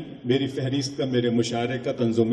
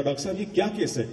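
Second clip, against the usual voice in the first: higher, fast, rattled asking; frightened question; 5 semitones higher, 3 dB quieter, faster than usual. Retold or imitated. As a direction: blurt it out scared after backing away. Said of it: "میں گھبرا کے پیچھے ہٹ گیا".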